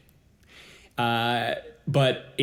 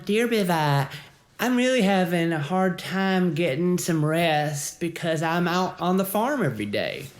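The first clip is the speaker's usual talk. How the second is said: mock letter reading; 4 semitones higher than usual. Reading a listener letter aloud.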